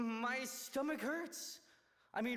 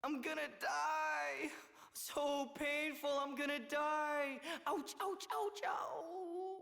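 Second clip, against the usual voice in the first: slow, higher hammy moaning; milk the fake pain; fake stomach ache; 4 semitones higher, slower than usual. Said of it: "the old fake stomach ache routine".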